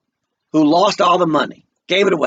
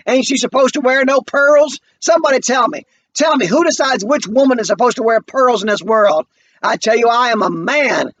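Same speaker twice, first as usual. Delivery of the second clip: higher and louder, indignant rant; angry son; 7 semitones higher, 4 dB louder than usual. Acted. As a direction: demand an answer from the whole room. Walter rants at family.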